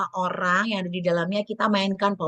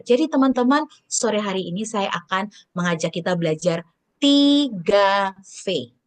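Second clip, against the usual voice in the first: tempo demo. Shown as a demonstration. Trainer demonstrates varying speed in a speech, changing tempo. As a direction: run along, then stretch the key word. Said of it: "menggunakan kecepatan. Misalnya, saya berbicara".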